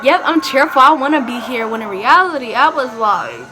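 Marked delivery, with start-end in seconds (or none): 0.0-1.7 higher, louder put-on enthusiasm; fake cheerful. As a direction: act keen to be there. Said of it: "So I just acted like".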